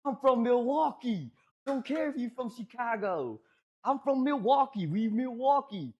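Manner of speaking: high, drawn-out mock holler; imitated yelling. Friend yelling at the girl about Milwaukee, high mock yell. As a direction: holler it like a boastful hometown chant, held back in volume. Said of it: "he just straight up yelling and screaming at her".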